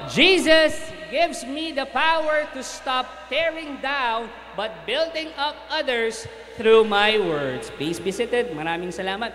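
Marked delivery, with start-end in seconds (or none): 0.1-7.7 slow, rallying group declaration; leading a shout. Real, not acted. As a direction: call it out for all to repeat. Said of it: "sigaw nyo".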